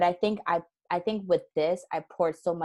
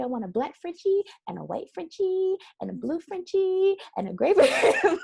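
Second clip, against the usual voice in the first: put-on gushing baby talk; 12 semitones higher, 5 dB louder than usual. Imitating herself gushing daily to her husband about the puppy, high and cooing. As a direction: coo over the coming puppy. Retold excited self.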